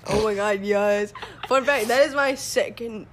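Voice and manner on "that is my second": accidental crack in the voice. Real, not acted. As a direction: voice cracks on "second". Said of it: "my voice, like, kinda cracked".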